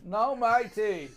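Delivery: mock Australian accent. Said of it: "both of you have different accents".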